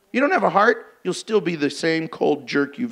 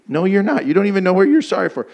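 quick, louder scolding as mom; mock scolding mom; 5 dB louder, faster than usual. Mother scolding her child, fast and loud. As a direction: snap back like an exasperated mother.

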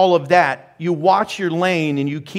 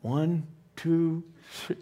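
countdown to a shout; 3 dB louder than usual. Pretend. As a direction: count it down and burst out. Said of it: "Or I go".

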